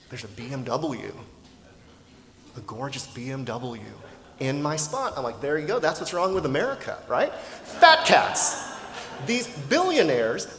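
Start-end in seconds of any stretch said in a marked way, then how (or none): 5.4-10.5 louder, higher, hammed-up outraged rant; mock fury at the billionaire's car, spat out fast; retold furious rant. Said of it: "I'm so furious".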